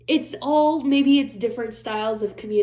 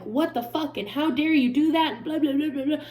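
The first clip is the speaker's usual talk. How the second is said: higher-pitched mock accusing rant; imitated confrontation; 5 semitones higher than usual. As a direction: mimic an indignant telling-off, rattling into blahs. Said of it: "I would never talk to Perry like that".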